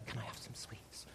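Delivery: breathless little whisper; timid child whisper. Retold or imitated. Preacher voicing a timid child asking father, whispered. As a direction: ask like a timid child hoping not to be refused. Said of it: "they ask very quietly sometimes".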